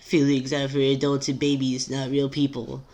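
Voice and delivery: timid character mimicking a brash friend; Tavros imitating Rissy. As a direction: quote the friend in a lightly mimicking voice. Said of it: "make this sound like Tavros is speaking like Rissy".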